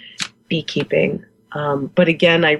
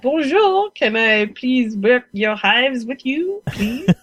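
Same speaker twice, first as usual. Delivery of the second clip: high eager bonjour, slow and pleading; eager foreigner; 6 semitones higher, slower than usual. Retold or imitated. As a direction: play the hopeful foreigner asking nicely. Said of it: "foreigner going".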